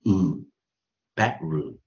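bedroom with a short U for OO, slowly; pronounced U in bedroom. Shown as a demonstration. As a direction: say U, then bedroom, drawn out. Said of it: "O O念什么".

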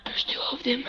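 whispered warning. Real, not acted. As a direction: drop to an urgent whisper. Repeated warning to teammate.

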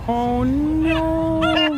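mock a pearl-clutching liberal; mock distress. Mocking liberals' fake distress.

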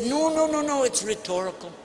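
mock protest, starting high and falling away; hasty backing down. Threatened old man retreating from his insult, hastily backing down. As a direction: back off quickly with a string of high no's.

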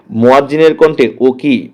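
ordinary talk, nothing marked

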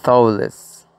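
"thoughtless" with force on THOUGHT; tongue tip behind the upper teeth for the TH, stress the start of "thoughtless"; "thoughtless" stressed on the first syllable, falling after. Shown as a demonstration. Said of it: "fuerza en la primera sílaba".

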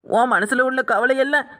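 sobbing words of comfort; wailing condolence. Acted. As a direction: wail in sympathy, stretching each ending. Wailing condolence to bereaved man.

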